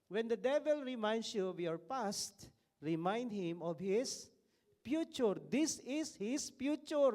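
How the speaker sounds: loud, high, triumphant declaration, slowing on the end; proclaiming the sticker. Acted. Preacher reading a sticker's message to the congregation, loud and triumphant. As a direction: proclaim it like a battle cry against the devil. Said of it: "may sticker na ganito eh".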